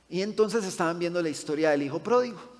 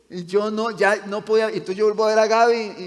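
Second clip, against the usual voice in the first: choked-up, louder and higher, fighting tears; holding back tears; 5 semitones higher, 8 dB louder than usual. Real, not acted. Pastor telling his children how he nearly cried, choked up. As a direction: voice rising as the tears come. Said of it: "Ya voy a llorar".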